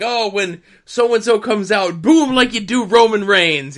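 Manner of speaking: mock hyping up a crowd; instructing a crowd. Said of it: "he was instructing the crowd".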